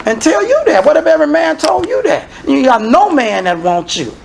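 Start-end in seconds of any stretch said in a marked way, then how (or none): none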